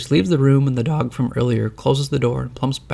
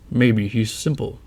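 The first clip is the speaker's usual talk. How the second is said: grumbling; slower than usual. A narrator's reading. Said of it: "grumbles the master".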